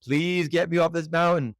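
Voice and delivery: pleading that climbs to a high, frantic wail; hammed-up desperate bargaining with God; desperate prayer. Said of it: "But I got on my knees. I said".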